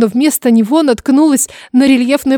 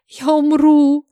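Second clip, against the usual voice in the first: moaning; 4 semitones higher, much slower than usual. A narrator's reading. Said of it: "всхлипнув, простонала я".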